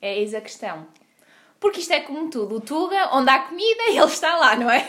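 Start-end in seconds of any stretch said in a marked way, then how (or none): 1.6-4.9 laughing. Real, not acted. Laughing joke about Tugas and food.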